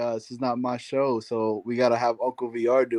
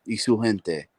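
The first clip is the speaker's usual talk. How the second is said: Spanish sultry narrator. Pretend. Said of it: "what you say in a sexy voice".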